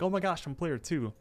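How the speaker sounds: lightly acted giddy surprise; retold excitement. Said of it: "Rigby gasps in excitement".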